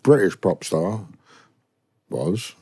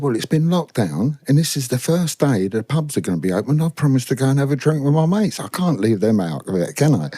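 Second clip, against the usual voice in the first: mock pleading; 4 semitones higher than usual. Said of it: "we're pleading with me".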